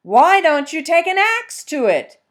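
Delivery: hunter's voice. Acted. Fox as hunter questioning the peasant about the stump.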